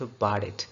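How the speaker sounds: "bought it" with the first t as a flapped d; T becomes D. Shown as a demonstration. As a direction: link "bought it" into "bawdit". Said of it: "ये भी टी जो है डी बना".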